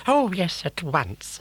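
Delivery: high, dopey crocodile sidekick; simple-minded toady asking his boss; dim crocodile. Acted. Croc obeys.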